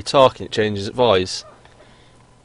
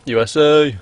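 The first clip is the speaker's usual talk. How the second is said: patriotic cheer; 5 semitones higher, 6 dB louder, slower than usual. Pretend. Patriotic cheer picking team.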